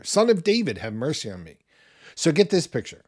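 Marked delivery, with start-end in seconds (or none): 0.0-1.6 imitated louder shout. Blind beggar calling over the crowd, retold mild shout. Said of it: "shouted louder".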